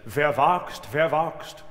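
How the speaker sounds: dramatic stage declamation; theatrical delivery. Shown as a demonstration. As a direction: declaim it like an actor. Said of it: "Im theatralischen Sinne".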